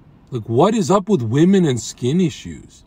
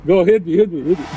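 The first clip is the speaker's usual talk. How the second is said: yelling over leaf blower; 2 semitones higher, 3 dB louder than usual. Real, not acted. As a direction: call out over the noise. Shouting to worker over blower.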